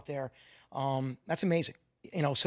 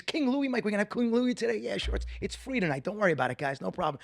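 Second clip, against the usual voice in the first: mock exchange; 5 semitones higher than usual. Friends asking for free wine.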